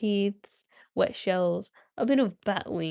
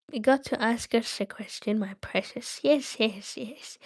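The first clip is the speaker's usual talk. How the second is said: Gollum voice; 4 dB quieter than usual. Acted. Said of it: "my Gollum voice".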